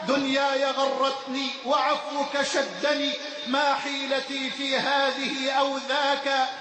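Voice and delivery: steady devotional recitation of verse; recited prayer poem. Acted. Preacher reciting a poem of repentance to the congregation, devotional. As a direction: recite the supplication as a humble plea.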